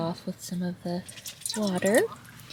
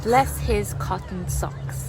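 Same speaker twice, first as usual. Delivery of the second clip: attempted Northern English accent; slower than usual. Shown as a demonstration. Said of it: "I'll try to do Northern".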